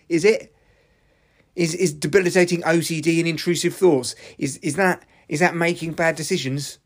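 angry rant. Real, not acted. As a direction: vent your fury, pitch pushed up. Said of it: "I'm ranting at you".

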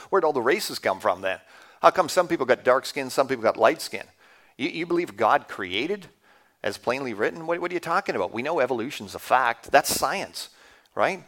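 lightly acted scoffing challenger; mock incredulous skeptic. Skeptic challenging a believer on Genesis, mildly incredulous. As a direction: fire off challenges in mild mock disbelief. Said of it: "ever heard this type of thing".

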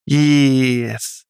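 a squeaky nasal yes. A narrator's reading. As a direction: squeak it through the nose. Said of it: "Squeaky nasal voice said".

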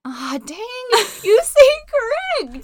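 slow, high rustic drawl; Utah hick voice. Pretend. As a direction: drawl it out like a small-town hick. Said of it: "like, Utah hick voice out".

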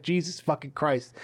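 slow, quiet fed-up curse; exasperated curse. Acted. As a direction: curse under your breath, acting worn out. Aloy fed up, muttered curse.

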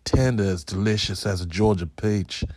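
put-on barely-there Southern gentleman accent. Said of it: "I don't sound like someone from the South".

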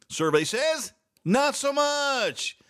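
high, drawn-out game show reveal; game show host. Pretend. Host revealing the answer to viewers, mock game show voice. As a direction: announce it like a quiz show host.

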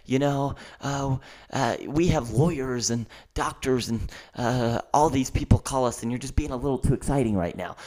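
lightly imitated hesitant IT guy; socially awkward interviewer. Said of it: "This guy's shaking his head".

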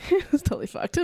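laughing, with a high jump in pitch; blurting out the swear with a laugh; uncensored. Real, not acted. Friends teasing her to swear, she blurts it laughing. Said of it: "There we go. Better".

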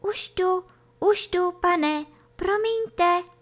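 high, scared little voice; frightened. A narrator's reading. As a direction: apologise hastily in a high, cowed voice. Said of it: "Dostal velký strach a rychle řekl". (vystrašeně, vysokým hláskem)

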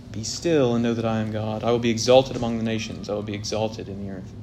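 soft, comforting promise to his people; quiet reassuring reading. Shown as a demonstration. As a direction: read it as gentle comfort. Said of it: "this interpretation of the verse".

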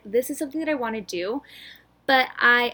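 breathless, gasping between words; out of breath. Real, not acted. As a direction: talk while short of breath. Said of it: "I'm so out of breath".

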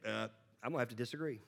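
hushed, rushed, apologetic; timid murmur. Pretend. Student timidly contradicting the trigonometry professor, hushed and rushed. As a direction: mumble it fast like a nervous student.

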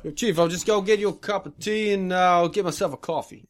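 chummy New York cop on a drinks run; New York accent. Acted. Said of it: "New York?".

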